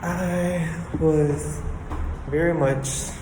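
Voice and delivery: breathless after climbing stairs; out of breath, talking between breaths. Real, not acted. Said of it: "I'm, like, out of breath".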